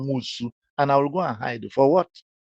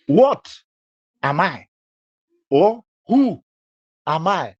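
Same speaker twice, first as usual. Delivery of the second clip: mock quote; 5 semitones higher, 5 dB louder than usual. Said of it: "You say".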